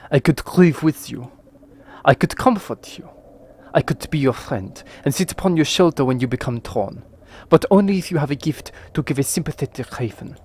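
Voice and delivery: a lightly voiced sly raven, near Northern; a hint of a scheming talking raven. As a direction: offer help like a sly bird. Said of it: "I nearly went northern for him then".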